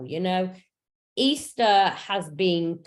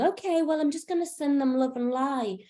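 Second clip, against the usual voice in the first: lightly hammed-up higher sing-song of a fake-positive seeker; mock spiritual bypasser; 4 semitones higher than usual. Mocking people who spiritually bypass, in a high fake-serene voice. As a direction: send them love and light with a forced airy sweetness. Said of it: "we're not spiritually bypassing and going".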